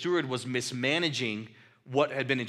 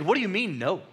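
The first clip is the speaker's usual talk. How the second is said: miffed; 6 semitones higher than usual. Retold or imitated. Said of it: "I'm talking out loud".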